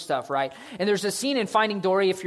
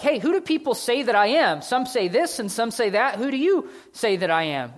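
Jesus asking; 7 semitones higher, 5 dB louder than usual. Acted. Jesus questions his disciples.

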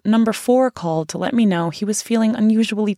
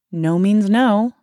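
slow, firm, a bit louder with a smile; firm but smiling; 3 semitones higher, 3 dB louder, much slower than usual. Retold or imitated. Turning Danny down after dinner, firm and smiling. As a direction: set the limit slowly and kindly. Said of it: "I said firmly, but with a smile".

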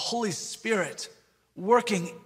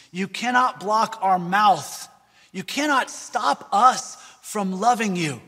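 impassioned pastor quote. Retold or imitated. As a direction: preach it like the pastor facing the world. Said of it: "he says".

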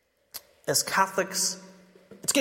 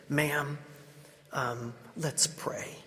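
soft, slow and much quieter; gentle quiet invitation; 9 dB quieter, much slower than usual. Retold or imitated. Big stranger softly asking the crying mom to pray, quiet and slow. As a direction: hush down, slowly offering to pray.

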